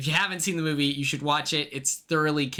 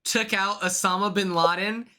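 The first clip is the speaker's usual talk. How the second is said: louder, hyped-up pitch of a crazy idea; excited; 5 semitones higher, 7 dB louder than usual. Real, not acted. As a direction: sell the absurd idea with a loud grin. Wild hypothetical, hyped up.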